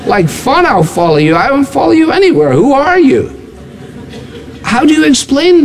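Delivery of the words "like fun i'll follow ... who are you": scoffing, rising higher as it goes; acted incredulous rebuff; indignant refusal. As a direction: brush off a presumptuous stranger. Imagined indignant refusal to a stranger.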